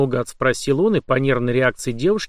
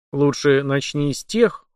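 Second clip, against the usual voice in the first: cold; slower than usual. Acted. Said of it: "холодно прервал её Март".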